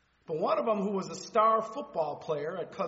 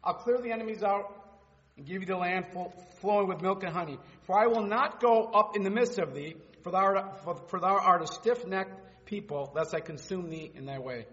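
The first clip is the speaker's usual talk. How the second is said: scripture reading. Acted. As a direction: read God's words with authority.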